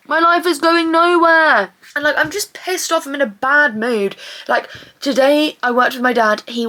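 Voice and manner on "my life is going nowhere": drawn-out, higher lament; exasperated wail. Real, not acted. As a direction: wail it slowly in frustration. Venting despair, repeats the lament.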